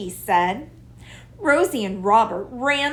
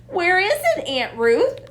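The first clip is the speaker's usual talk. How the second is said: surprised; 9 semitones higher, 4 dB louder than usual. A narrator's reading. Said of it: "asked Rosie in surprise".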